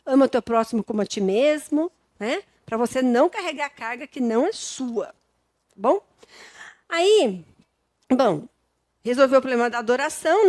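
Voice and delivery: normal talking voice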